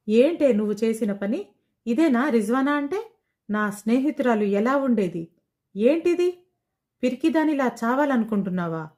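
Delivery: a touch of angry scolding. Acted. Friend scolding Rizwana for giving up, mild anger. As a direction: scold a friend, mildly heated. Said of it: "కోప్పడింది".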